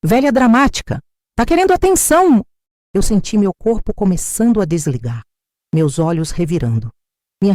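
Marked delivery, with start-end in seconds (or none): 0.0-2.4 mocking contempt. Daughter-in-law mocking the dying woman.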